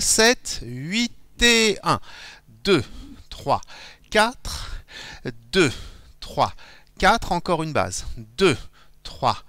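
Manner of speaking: rhythmic counts for the rumba step, stretched on the beats; counting the dance beat. Shown as a demonstration. Teacher counting dancers through the basic step, in rhythm.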